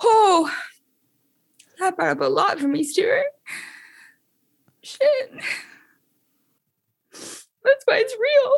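overcome with emotion, voice pitched very high. Reacting after a breathwork segment that brought up a lot: emotional. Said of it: "I'm pretty emotional right now".

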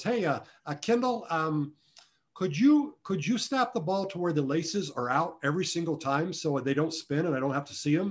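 slight put-on South African accent. Retelling what a former pro bowler asked the speaker, in a little South African accent. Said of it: "in this little South African accent".

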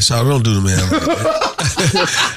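drawling while laughing.

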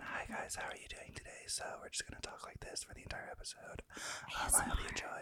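whispering. Greeting listeners at the start of an episode, whispering. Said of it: "we'll just whisper the whole time".

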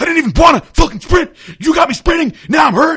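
put-on shrill, very high, loud, furious yelling. Retelling what a man on the machine yelled after being laughed at, mock yelling. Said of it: "he was yelling while he was on the machine".

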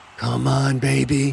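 whispering. Urging on a thrown ball as it starts to drop, whispered. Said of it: "he whispered".

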